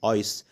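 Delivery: "آيس" with a full long eye sound; long I demo. Shown as a demonstration. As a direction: say the I in "آيس" like its letter name. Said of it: "هنا حرف الآي اتنطق لونج". ("آيس" بصوت الحرف الطويل)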